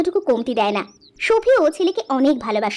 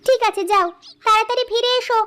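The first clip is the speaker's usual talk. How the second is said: slightly higher-pitched wife seeing her husband off; lightly voiced wife; 5 semitones higher than usual. Wife sends husband off before cooking, lightly voiced. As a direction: play a homely wife, pitched up a little.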